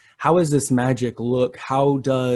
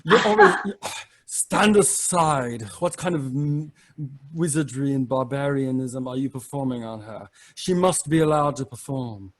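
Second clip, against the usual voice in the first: haughty wizard scolding the dwarf; huffy, put-out magician; lightly voiced pompous wizard; indignant magician.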